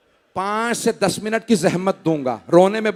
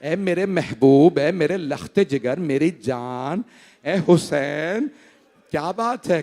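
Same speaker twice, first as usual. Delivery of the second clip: slow, lowered, imitated weeping tenderness; tearful endearments; 2 semitones lower, slower than usual. Grandfather embracing Hussain, voiced as slow tearful lament. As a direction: draw out each endearment as if weeping. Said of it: "और रो के कहने लगे".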